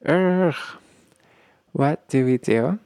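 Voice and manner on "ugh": higher-pitched mock angry "ugh"; angry groan. Partner comes to you angry, exasperated groan. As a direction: groan like someone fed up. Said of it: "angry, angry, angry".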